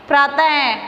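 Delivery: प्रातः closing on a sounded "ha"; visarga as H. Shown as a demonstration. Teacher repeating the example, प्रातः with its final H sounded. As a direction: let प्रातः end in an H sound. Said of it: "है की तरह किया जाता है".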